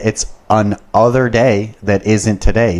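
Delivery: "other" split off from "an", slow and punched; stress on OTHER. Retold or imitated. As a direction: say "an other" as two deliberate words. Spells out "an other day.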